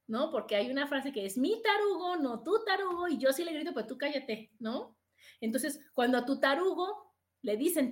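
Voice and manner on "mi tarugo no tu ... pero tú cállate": mock protective wife. Quoting a protective wife's saying.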